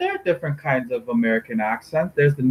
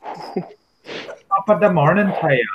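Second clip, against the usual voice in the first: slow, higher stage-Irish greeting; Irish accent; 4 semitones higher, slower than usual. Shown as a demonstration. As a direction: draw out a put-on Irish greeting. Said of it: "Irish accent".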